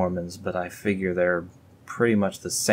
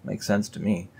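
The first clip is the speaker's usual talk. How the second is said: ordinary talk, nothing marked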